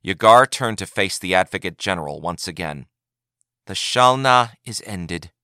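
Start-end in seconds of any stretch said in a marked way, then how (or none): 3.6-5.3 slow, solemn pronouncement; intoned. A narrator's reading. Advocate General formally ends the Shalna, slow and solemn. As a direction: declare it like a ritual ending. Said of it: "she intoned".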